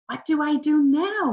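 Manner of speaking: put-on a boy panicking over his runaway bird; desperate. A narrator's reading. Boy desperately asking his mom what to do now. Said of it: "Mitch asked Mom desperately".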